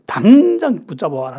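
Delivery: forceful mock command to the soldiers; angry command. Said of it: "너무 화가 나니까".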